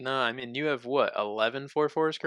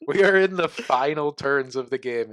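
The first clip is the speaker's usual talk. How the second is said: stifled giggles; 6 dB louder than usual. Real, not acted. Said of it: "trying not to laugh".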